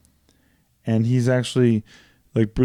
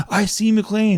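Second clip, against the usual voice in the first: imitating Samuel L. Jackson; 10 semitones higher, slower than usual. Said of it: "Jackson's like".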